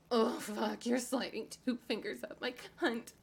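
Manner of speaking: ordinary talk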